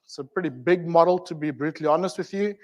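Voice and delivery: normal talking voice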